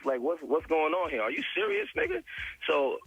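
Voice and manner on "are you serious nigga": incredulous. Retold or imitated. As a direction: pitch shoots way up in disbelief. Disbelief at Ray J's claim.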